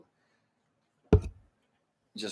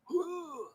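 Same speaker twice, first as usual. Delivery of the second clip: high, soft drawn-out gasp; mock gasp; 8 dB quieter than usual. Viewer recalling an awkward sex admission, mock gasp. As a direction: re-enact a shocked intake of breath.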